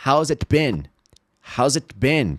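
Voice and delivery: "it" with its T sounded before "been"; awkward careful T between "it" and "been"; T pronounced in IT. Shown as a demonstration. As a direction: fully articulate the T in "it". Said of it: "como fica mais complicado falar".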